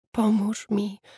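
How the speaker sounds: whispering. She answers the narrator's question: whispering. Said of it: "wyszeptała".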